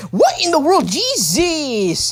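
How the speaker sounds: high, incredulous outburst; stunned disbelief. Real, not acted. Commentator reacting to an unexpected crash and roll, stunned. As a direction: exclaim in sheer disbelief, pitched high.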